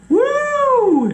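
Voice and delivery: high, loud whoo; whoo exclaim. Real, not acted. Recalling the terrifying surprise, a high loud whoo. Exclaiming after scary story.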